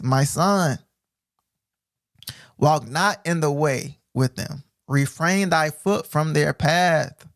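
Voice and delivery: very slow, solemn reading; measured preacher's reading; scripture reading. Acted. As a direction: draw out the warning.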